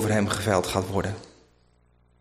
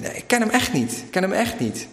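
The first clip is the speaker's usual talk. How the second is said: insistent denial; 7 semitones higher than usual. Retold or imitated. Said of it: "En dan zegt hij".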